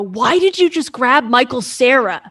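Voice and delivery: incredulous friend. Retold or imitated.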